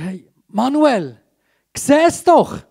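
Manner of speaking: looking him in the eyes. Shown as a demonstration. Preacher looks the volunteer in the eyes and speaks directly. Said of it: "ihm in die Augen schauen und sagen".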